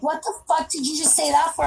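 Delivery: a hint of an irritated partner; imitating boyfriend, annoyed. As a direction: quietly quote his irritation. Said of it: "he'll be like".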